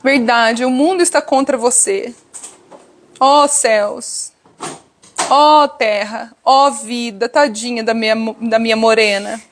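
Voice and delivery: mock-tender, melodramatic coddling, stretching Ó céus and Ó terra very slowly; hammed-up pity like petting a child; a hint of an overdone sweet husband consoling his wife. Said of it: "Ele não fica assim".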